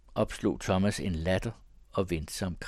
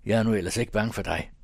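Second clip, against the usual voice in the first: fast, firm retort; sharp; 4 dB louder, faster than usual. Acted. Paul finally facing Thomas, sharp retort. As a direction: say it sharply and quickly, standing up for yourself. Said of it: "sagde han skarpt".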